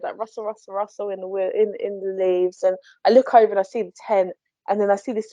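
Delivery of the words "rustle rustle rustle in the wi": whispered rustling sound; quiet rustle imitation. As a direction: breathe it out softly like leaves. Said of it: "I hear this rustle noise".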